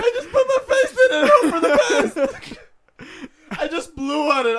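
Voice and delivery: high, laughing put-on voice; laughing mock voice. Mocking the clueless coworker, high and laughing. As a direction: play the clueless kid through giggles.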